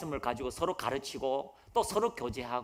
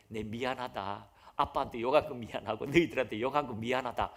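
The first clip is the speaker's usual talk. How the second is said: sincere apology; 4 semitones lower than usual. Retold or imitated. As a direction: say sorry humbly to your family. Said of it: "그렇게 말했대요".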